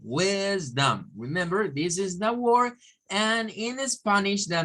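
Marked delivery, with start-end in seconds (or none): 0.0-1.1 wisdom drawn out, ending in a weak dum; teacher modelling wisdom with a schwa. Shown as a demonstration. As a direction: stretch WIS, soften the vowel of dom to uh. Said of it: "with the schwa".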